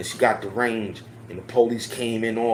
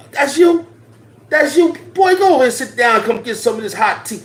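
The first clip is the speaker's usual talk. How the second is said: put-on very high, loud, surprised old mama voice; high, loud auntie with a hot tea welcome; 11 semitones higher, 5 dB louder than usual. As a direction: greet him like a doting old mama. Old mama greeting the officer.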